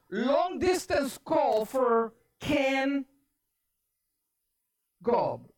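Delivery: slow, drawn-out operator announcement. Retold or imitated. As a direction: announce the call slowly, pausing before the surname. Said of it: "On the other line, the voice says".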